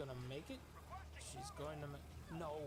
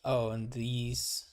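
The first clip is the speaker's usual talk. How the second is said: put-on southern accent; 3 semitones lower, 15 dB louder than usual. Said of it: "that was a hella southern accent".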